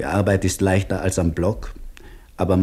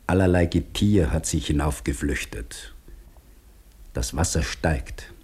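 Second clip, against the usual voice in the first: hushed whisper; 3 semitones lower, 5 dB quieter than usual. Acted. Diary reading of drowning island.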